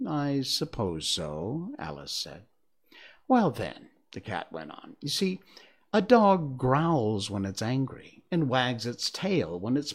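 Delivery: slow, reasoning cat voice; a smug cat explaining its logic; snooty bored cat. Acted. The Cheshire Cat voiced in story.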